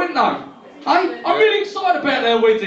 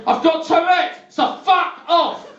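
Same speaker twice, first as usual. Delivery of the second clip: cheeky retort; 6 semitones higher, slower than usual. Retold or imitated. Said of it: "I turned around and I said".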